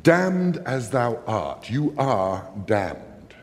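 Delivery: very slow, weighty curse, starting high and falling; solemn condemnation. Acted. Angry father condemning Othello, slow and damning. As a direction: draw out each word as a pronouncement. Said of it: "But then he goes further".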